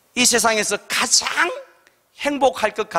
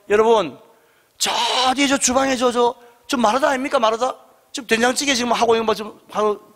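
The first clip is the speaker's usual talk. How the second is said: imagined Jesus praising; 3 semitones higher than usual. Retold or imitated. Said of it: "예수님께서 말씀하시다가".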